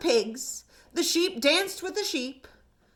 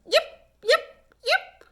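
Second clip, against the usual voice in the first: very high, loud fox calls; fox yipping; 13 semitones higher, 4 dB louder, slower than usual. A narrator's reading. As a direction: call like a fox pup. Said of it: "Little Fox called again".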